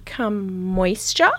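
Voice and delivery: hushed, drawn-out "Come moisture", earnestly wrong; child's mangled Spanish. Retold or imitated. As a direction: imitate a beginner sounding out "Come moisture" in stretched English syllables. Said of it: "She's like".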